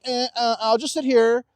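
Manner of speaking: hammed-up apathy; mock lazy shrug. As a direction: play the one who won't get up. Mocking lazy response.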